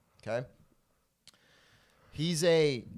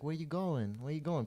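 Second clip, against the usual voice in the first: higher-pitched mock come-on; put-on higher voice of a pushy admirer; 4 semitones higher, 3 dB quieter than usual. Man hitting on the speaker, mock come-on.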